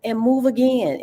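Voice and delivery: emphatic urging. Real, not acted. Host continuing emphatic pep.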